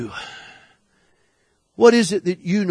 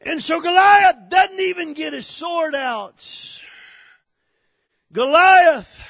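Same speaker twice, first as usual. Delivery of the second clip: preaching at full force; 7 semitones higher than usual. Acted. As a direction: thunder it out like a revival preacher. Preaching climax continues.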